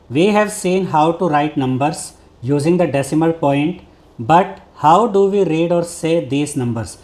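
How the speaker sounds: slow, careful reading of the book's English line; textbook read-aloud. Acted. Teacher reading the textbook to students, slow and deliberate. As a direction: read it out word by word for the class.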